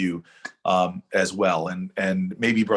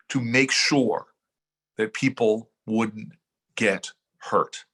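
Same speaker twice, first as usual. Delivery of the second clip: rousing speech climax. Acted. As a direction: preach it to the crowd, unhurried. Speech builds to rousing close.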